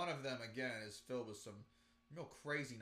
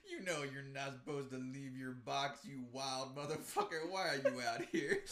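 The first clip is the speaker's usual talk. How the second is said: trying not to laugh; 4 dB louder than usual. Real, not acted. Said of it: "be like".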